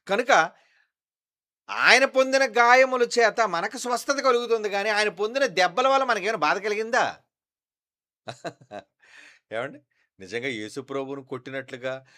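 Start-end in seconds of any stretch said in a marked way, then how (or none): 0.1-7.2 high, loud fervent preaching; full-force preaching. Acted. Pastor insisting to the congregation, loud preaching. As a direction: drive the point home to the church.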